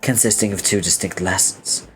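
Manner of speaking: formal, self-serious speech; verbose, earnest hero. Acted. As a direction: deliver a pompous life lesson, evenly. Reads verbose character's speech.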